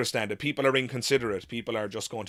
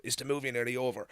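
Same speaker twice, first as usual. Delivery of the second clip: hushed whisper; 2 semitones higher, 6 dB quieter, faster than usual. Retold or imitated. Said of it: "somebody whispered".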